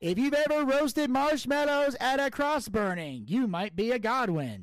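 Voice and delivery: high, loud mock Southern comic; hammed-up comedian voice. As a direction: ham up the punchline like a stand-up. Redneck jokes in hammed voice.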